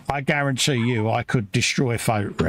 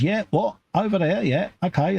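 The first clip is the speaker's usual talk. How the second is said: a hammed-up German accent, pitched higher; a badly faked German accent, pitched up; 9 semitones higher than usual. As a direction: fake German accent voicing the toy figure. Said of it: "my German accent is really coming on well there".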